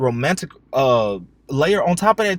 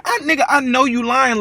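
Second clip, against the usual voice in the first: mock accusing; 9 semitones higher, 3 dB louder than usual. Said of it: "I'm just like".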